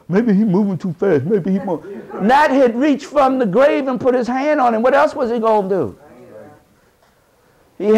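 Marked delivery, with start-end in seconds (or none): 0.1-1.8 lightly voiced nervous doubters; half-laughing mock of worried folk; imitating timid people. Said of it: "'cause I heard people say".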